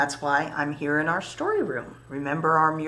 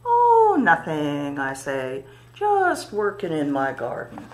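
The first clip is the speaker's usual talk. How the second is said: playful rhyme reply; 6 dB louder, slower than usual. Acted. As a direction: toss off a sing-song storytime answer. Quoted reply in a children's rhyme.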